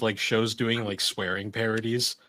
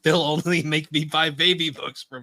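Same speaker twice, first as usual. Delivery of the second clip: raised-pitch cartoon boy imitation; Arthur; 5 semitones higher, 3 dB louder than usual. Cartoon brother refusing a baby book, protesting higher voice. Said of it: "And he's like".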